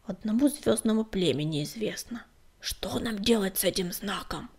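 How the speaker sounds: gloomy grumble. Acted. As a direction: grumble it darkly. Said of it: "мрачно проворчал сварливый Безух".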